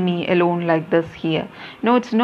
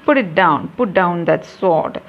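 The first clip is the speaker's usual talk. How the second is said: commanding warrior goddess. Acted. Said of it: "the goddess voice is heard".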